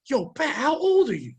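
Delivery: put-on a light send-up of the kid asking; imitating young coworker. Young coworker asks Pat's age, lightly mimicked. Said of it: "one of the younger black kids goes".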